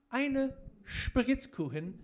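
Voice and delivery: put-on careful slow German accent on "eine Spritzkuchen"; best German accent. Comic ordering at a bakery, slow careful German accent. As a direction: try hard to sound German, slowly. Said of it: "in my best German possible".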